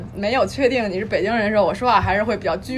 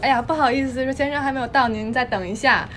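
gentle, polite, softer Taiwanese nurse. Retold or imitated. Taiwanese nurse politely asking the patient to wait, soft and sweet. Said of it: "台湾小护士说".

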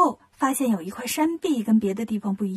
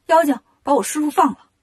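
louder, moderately raised shout; Monkey King shouting; 3 semitones higher, 5 dB louder than usual. Acted. Monkey King demands his master's release, shouting. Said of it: "拿着金箍棒喊".

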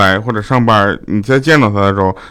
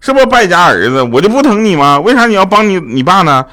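mock-angry mum, pitched higher; 6 semitones higher than usual. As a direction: scold like an offended mother, voice raised high. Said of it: "我老妈很生气啊". (模仿生气的妈妈，音调偏高)

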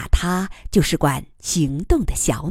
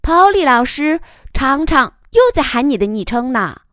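laughing tease; 8 semitones higher, 5 dB louder than usual. Acted. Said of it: "笑着用英语说".

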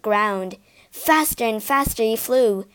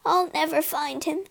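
weeping; 5 semitones higher, 4 dB quieter than usual. Acted. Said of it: "she wept".

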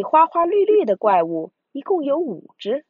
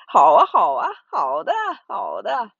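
excited monsters; 2 semitones higher, 4 dB louder than usual. Acted. Monsters agree happily.

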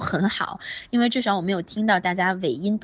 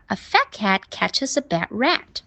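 quicker take, "catches a" run together; faster linked reading; slower than usual. Shown as a demonstration. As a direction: speed it up, keeping "catches a" linked. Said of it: "读快一点儿". (读快一点儿，catches a 连读)

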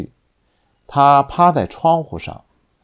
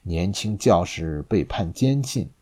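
low, quiet and grim; a somber executioner; 3 semitones lower, 4 dB quieter than usual. Acted. Masked executioner speaking grimly.

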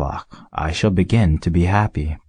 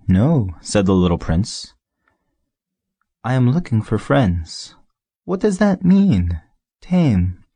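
insistent little prince; 4 semitones higher than usual. A narrator's reading.

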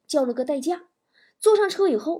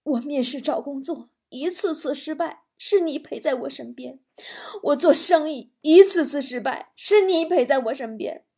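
heartfelt, building tearful tribute. Acted. Injured husband thanks his wife at bedside, tearfully. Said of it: "他泪眼婆娑地对妻子说".

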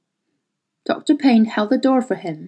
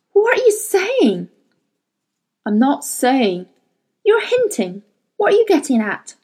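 sharp demand; 4 semitones higher than usual. Acted. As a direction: press him hard.

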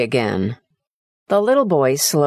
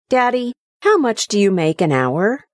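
put-on higher, curious childlike question; boy quizzing his dad about pay, childlike; young son's voice; 6 semitones higher than usual. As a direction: ask it like a small innocent boy. Son asks father's wage.

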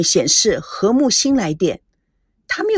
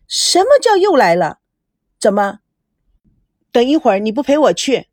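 displeased; 3 semitones higher than usual. Acted. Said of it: "心里非常不高兴".

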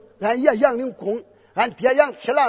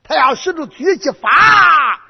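alarmed shout; 7 semitones higher, 8 dB louder than usual. Acted. General alarmed.

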